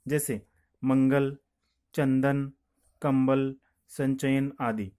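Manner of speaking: मंगल and संचयन said slowly and firmly; slow example words. Shown as a demonstration. Teacher to students, slowly modelling मंगल and कंबल. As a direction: sound out मंगल, कंबल one by one. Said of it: "तो अनुस्वार का प्रयोग भी किया जा सकता है".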